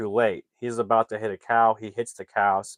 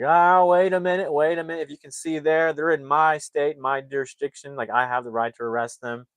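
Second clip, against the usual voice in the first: objecting cop; 5 semitones higher, 3 dB louder than usual. Retold or imitated. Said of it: "He's like".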